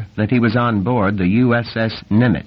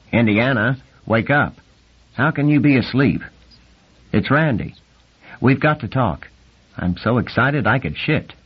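excited; 4 semitones higher than usual. Acted. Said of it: "the excited nasal voice".

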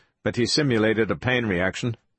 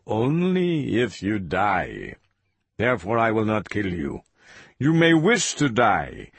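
lightly voiced villain, deliberate threats; menacing interrogator.

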